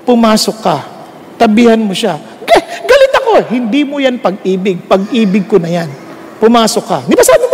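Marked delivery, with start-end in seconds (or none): 0.1-2.2 lower, calm, firmly patient; a hint of a gentle lord speaking; lightly voiced, lower and steady; calm voice of God. God answering the sulking husband. 2.4-3.3 put-on high, childish sulk with a laugh; mock petulant, much higher; sulky protest. Husband sulking to God. 3.5-7.0 lower, calm, firmly patient; a hint of a gentle lord speaking; lightly voiced, lower and steady; calm voice of God. God answering the sulking husband.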